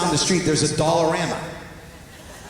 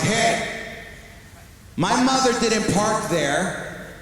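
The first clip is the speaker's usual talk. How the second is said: mild protective son mode; 6 semitones higher, slower than usual. Retold or imitated. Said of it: "aggressive, protective son mode".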